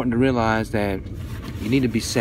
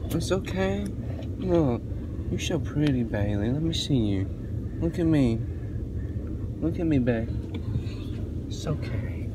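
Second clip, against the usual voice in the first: soft soothing; 6 dB quieter than usual. Real, not acted. Mother soothing child after episode.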